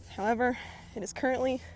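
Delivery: a bit winded while talking; out of breath. Real, not acted. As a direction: talk while slightly breathless. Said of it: "if I sound like I'm out of breath, I am".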